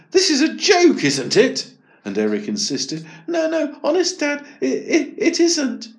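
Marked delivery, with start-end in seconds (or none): 0.1-1.7 high, loud scoffing; Dad disbelieving. Acted. 3.3-5.9 higher, stammering insistence; Eric pleading. Acted.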